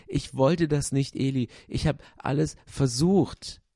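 begging to be believed; pleading puppet. A narrator's reading. Puppet defends himself to Eli. (viel höhere, flehende Puppenstimme)

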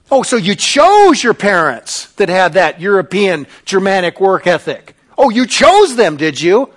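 dripping, mocking sarcasm; rich sarcasm. Real, not acted. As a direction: scoff at them, let the irony drip. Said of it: "Notice the rich sarcasm which is dripping from my mouth".

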